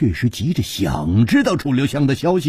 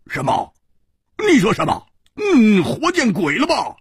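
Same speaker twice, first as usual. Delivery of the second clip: higher, indignant outburst; angry disbelief; 9 semitones higher than usual. Acted. Hu Tiehua indignant at the boy's claim. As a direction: bristle at the news. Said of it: "胡铁花怒道".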